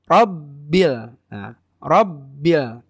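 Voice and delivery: Rabbil with a slightly pressed double b; pressed tasydid. Shown as a demonstration. Teacher demonstrates tasydid, Rabbil lightly pressed. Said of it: "sedikit ditekan".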